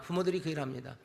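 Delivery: soft, sober repetition; quiet echo. Acted. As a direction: drop the voice on the repeat, 부모들이 said softly. Repeated line, softer echo.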